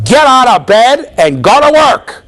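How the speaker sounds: loud, high, drawn-out mock order; shouted command. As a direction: bellow a blunt order at a patient. Acts blunt therapist ordering a patient.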